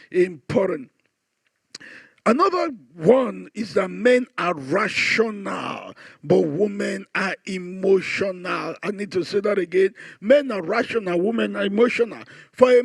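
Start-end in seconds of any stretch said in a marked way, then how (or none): 3.9-8.8 emphatic. Real, not acted. Stating the key point with emphasis.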